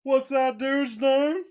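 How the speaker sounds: mocking imitation. Cohost mocks the forgotten name in a high slow voice. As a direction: parrot his question back in a silly high voice.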